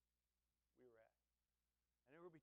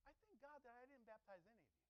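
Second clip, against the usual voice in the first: quiet reread; 5 semitones higher, 5 dB quieter, faster than usual. Shown as a demonstration. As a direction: let the words sink in softly. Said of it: "Did you hear what he just said?".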